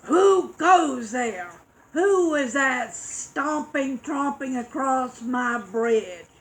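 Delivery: a mean troll challenging from the bridge; roaring troll. Acted. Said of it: "troll roared".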